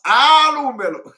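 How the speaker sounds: loud, high, drawn-out cry of Alumelo; imitated shout. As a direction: wail it out like he's being beaten. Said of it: "He was just shouting".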